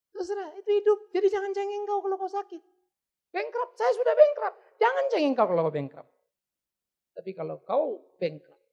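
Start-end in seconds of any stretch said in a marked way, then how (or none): 0.1-2.6 forceful exhortation. Real, not acted. Preacher exhorting loudly. 3.3-6.1 loud, high preaching; forceful exhortation. Real, not acted.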